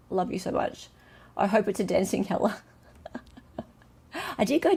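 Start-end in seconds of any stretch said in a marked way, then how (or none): 0.1-0.9 breathy whisper of love to the gifter; whispered thanks. Real, not acted. Host whispering thanks to a gifter, quiet whisper. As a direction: whisper it like a secret affection.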